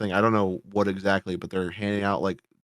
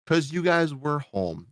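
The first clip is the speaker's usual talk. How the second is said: mocking quote; 6 semitones higher, slower than usual.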